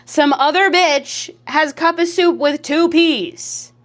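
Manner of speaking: indignant rant. Real, not acted. Annoyed someone took her name.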